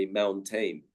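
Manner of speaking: "mountain" ending in a full "tain"; mispronounced mountain. Shown as a demonstration. Teacher quoting a common slip, mispronounced "mountain" as moun-tain. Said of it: "I have heard some people say".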